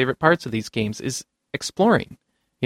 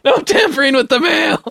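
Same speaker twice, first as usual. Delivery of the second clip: laughing mock decree; 10 semitones higher than usual. Repeats mailmen's line, laughing.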